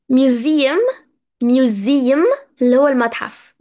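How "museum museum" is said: Museum said as "myoo-ZEE-um", each syllable clear; careful correct pronunciation. Shown as a demonstration. Teacher wanting students to pronounce properly, Museum said carefully as "myoo-ZEE-um". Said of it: "هدفي هنا إن إحنا برضو ننطق صح".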